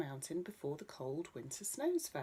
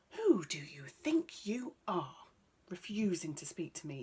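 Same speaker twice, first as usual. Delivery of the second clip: angry shout; 5 dB louder than usual. Acted. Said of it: "he shouted".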